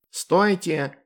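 a demon's sharp stop; character shout. A narrator's reading. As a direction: halt them sharply. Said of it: "мякнул Бухнак". (резкий окрик)

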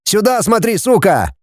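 high barked order. A narrator's reading. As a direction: snap at her to look. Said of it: "повысил голос".

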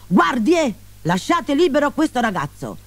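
ordine alle guardie in tono alto; comando accorato. A narrator's reading. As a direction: richiamo acuto e urgente. (comando accorato, voce alta)

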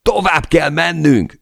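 high, loud, slow stubborn roar; refusing to quit, bellowed over the storm. Acted. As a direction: bellow it with every word dragged out. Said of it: "üvöltöttem".

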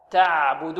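تعبد with the ع held and let flow; drawn-out, measured تعبد; correct recitation pron. Shown as a demonstration. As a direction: say تعبد slowly, easing through the middle ع. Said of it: "ولا نقول تعبد".

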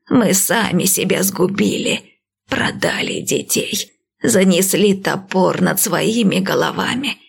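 slow, lightly voiced old priestess; calm old seer, unhurried; old woman voice.

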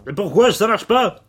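loud, flustered robot helper; clumsy robot sidekick. Acted. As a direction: play a panicky little robot.

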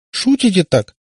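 high, upset questioning; holding back tears. A narrator's reading. Katya asks if it is a joke, near tears. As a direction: push the question out, tearful. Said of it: "Катя уже с трудом сдерживала слёзы".

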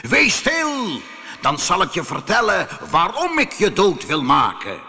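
menacing command, easing slightly into explanation; roaring genie. Acted. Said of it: "brulde de geest". (brullende, dreigende geest)

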